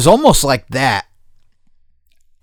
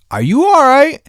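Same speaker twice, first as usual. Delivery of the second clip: high, louder rising question; concerned questioning; 5 dB louder than usual. Retold or imitated. Friend checking on him by phone, high questioning.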